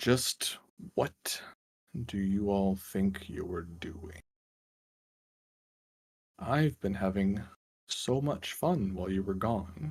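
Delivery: unearthly, otherworldly voice, warbling as if underwater. Voicing a speaker in a story told to the group, otherworldly warbly voice. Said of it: "in an otherworldly voice, warbly with sort of like underwater effect".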